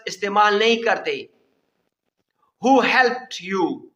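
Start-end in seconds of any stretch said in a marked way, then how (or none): 2.6-3.9 very slow, word by word; slow classroom dictation; slow model sentence. Shown as a demonstration. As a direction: spell it out slowly for learners. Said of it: "teacher models the question".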